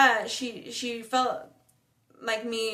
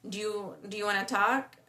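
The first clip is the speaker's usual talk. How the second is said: gentle offer to talk. Retold or imitated. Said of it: "So I was like".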